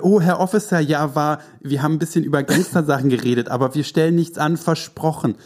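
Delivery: put-on high, pleading innocent boy; sweet innocent kid voice. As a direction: play the good little boy caught by police.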